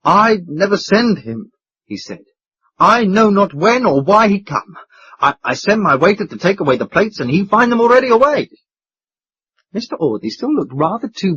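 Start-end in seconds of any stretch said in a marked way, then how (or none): 0.0-8.5 higher and louder, anxious innkeeper; agonized foreign proprietor. A narrator's reading. Proprietor explains the missing waiter, agonized. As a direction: plead helplessly with rising panic.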